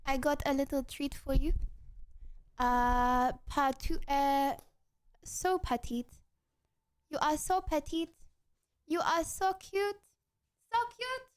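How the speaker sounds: put-on French accent. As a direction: speak English with a French accent. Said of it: "The accent starts when I start".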